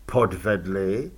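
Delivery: low, slow questioning podvedli with a rise; puzzled echo. A narrator's reading. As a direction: echo the word back, innocently puzzled. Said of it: "Elánius ho poklepal po rameni".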